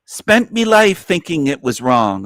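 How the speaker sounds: put-on British accent, read out lightly; mock British accent. Streamer re-reading a viewer's comment, British accent. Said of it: "I read that with a British accent".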